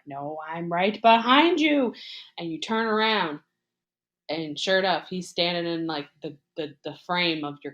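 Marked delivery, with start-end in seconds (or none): 0.1-1.9 louder, mock-menacing reveal; gleeful threat with force behind it; killer's reveal. Killer reveals himself to the victim, loud menace. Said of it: "And he's like".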